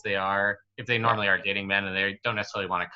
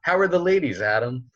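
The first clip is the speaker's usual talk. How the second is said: higher, put-on friend's voice asking about girls; Jason accent; 6 semitones higher than usual. Friend at the gym asking about the ladies, in a higher put-on voice. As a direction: ham up your buddy's casual question. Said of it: "That's my Jason accent".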